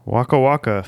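lightly voiced Fozzie catchphrase; Fozzie Bear impression. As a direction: toss off a mild Fozzie bit. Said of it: "did a different Muppet entirely".

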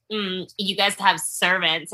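slow, mildly snide jab; imitating your own snide dig. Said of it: "like, snide and like".

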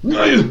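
high, loud battle shout; Aragorn battle yell. Acted. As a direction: shout as you strike. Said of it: "Can you do a good Aragorn noise?".

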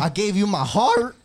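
high, loud mock crying plea. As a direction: wail it out like a heartbroken spouse. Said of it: "That's my crying voice".

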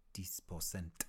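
a light mock French accent on "Dix pour cent"; silly French accent. Vlogger naming the French show, in a light silly French accent. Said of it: "I did a silly accent then".

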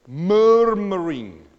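MURMURING stretched slowly, loud on the first syllable; drawn-out word. Shown as a demonstration. Preacher savouring a Bible word, drawn out. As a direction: draw out "murmuring" loud and slow.

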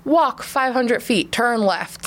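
GPS voice. Retold or imitated. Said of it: "my G P S went off".

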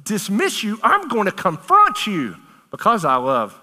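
high, loud and urgent; pleading confrontation. Pretend. Preacher confronting a loved one, loud and urgent. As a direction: shake them awake with your voice. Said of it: "like I'm trying to get through to you".

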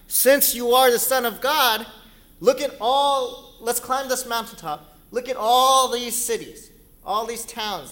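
high, loud showman of temptation; grand tempter voice. Acted. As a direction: sell the kingdoms grandly. Satan tempting from mountaintop.

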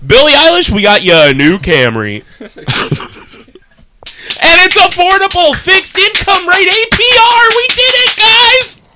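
high, loud hyped ad announcer; car commercial announcer. Acted. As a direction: sell it like a car dealership ad. Car dealership ad parody.

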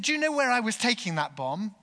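high, loud, hurried question; agitated questioning. Acted. Bomber asking carers what they know, agitated. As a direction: challenge them urgently.

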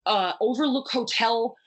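high-pitched, retold indignant disbelief; incredulous rant. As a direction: pile up the disbelief, pitch climbing into each question.

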